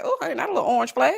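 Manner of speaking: fast, breaking into laughter; amused. Real, not acted. Telling viewers about the seatbelt moment, laughing. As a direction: rattle it off while starting to laugh.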